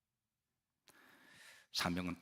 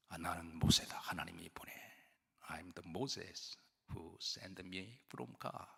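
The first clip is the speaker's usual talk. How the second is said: timid Moses; much slower than usual. Retold or imitated. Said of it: "괜찮아요?".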